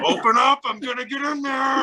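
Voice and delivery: high-pitched imitation of uncle breaking in; mock menacing holler. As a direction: holler a hammed-up threat through the window.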